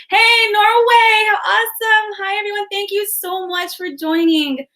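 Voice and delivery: light up as you greet a new arrival; excited greeting. Real, not acted. Greeting a viewer from chat.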